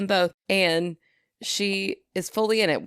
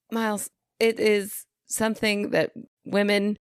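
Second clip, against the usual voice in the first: halting, higher-pitched careful explaining; awkward explanation; 4 semitones higher than usual. Retold or imitated. Aunt explains periods to her young nephew, awkwardly.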